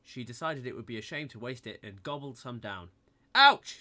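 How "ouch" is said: sharp high yelp of pain; loud high ouch; cry of pain. A narrator's reading. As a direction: yelp like you burnt your tongue. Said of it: "she cried".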